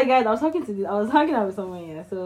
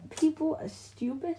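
higher, soft, slow Irish accent; 5 semitones higher, 9 dB quieter, slower than usual. Shown as a demonstration. Showing friend an Irish accent, Irish lilt. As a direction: try on an Irish lilt, rising at the end. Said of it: "That was, that was my Irish accent".

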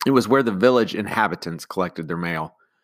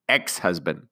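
clipped; 2 semitones lower, 4 dB quieter than usual. Acted. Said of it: "the woman announced in a clipped voice".

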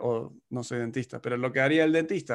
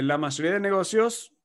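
mock ad pitch. Marketing agency pitching its website service, mock upbeat ad read. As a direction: sell it like a lightly hammed-up agency ad. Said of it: "La agencia de marketing puede decir".

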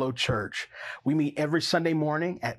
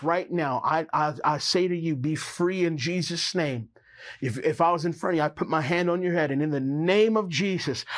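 commanding prayer. Acted. Prays deliverance over viewer.

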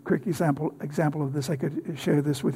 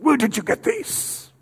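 higher-pitched put-on Soviet accent; Soviet officer's accent; 8 semitones higher than usual. Soviet officer interrogating a Bible smuggler, in a put-on accent. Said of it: "That's my little accent there".

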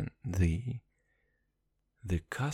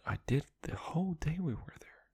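whisper; 3 semitones higher, 5 dB quieter than usual. Real, not acted. Whispered aside mid-vlog.

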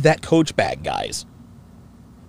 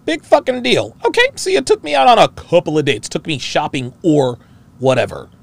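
mock dismissive voice. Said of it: "Her body language is telling you".

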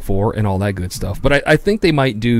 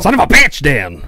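mock outrage; 4 semitones higher, 4 dB louder than usual.

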